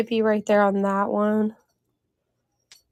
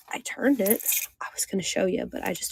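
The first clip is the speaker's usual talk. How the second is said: whispering; 6 dB quieter, faster than usual. Real, not acted. Aside while showing the glass.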